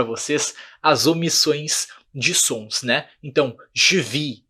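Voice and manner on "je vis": "je vis" as zhuh vee; "je vis" ending on the vowel; silent S. Shown as a demonstration. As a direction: leave the S off "je vis". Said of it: "não falo S".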